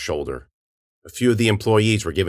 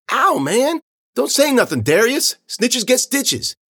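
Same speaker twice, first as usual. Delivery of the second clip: put-on high-pitched, raised kid voice; protesting kid; 4 dB louder, slower than usual. Kid warning his friend not to snitch, urgent.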